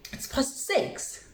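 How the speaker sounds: whispered and slow. Real, not acted. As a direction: breathe it out as a whisper. Unvoiced aside.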